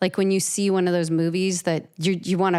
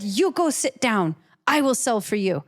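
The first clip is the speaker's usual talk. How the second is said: Chaim taking over; 5 semitones higher than usual. Retold or imitated. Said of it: "He said".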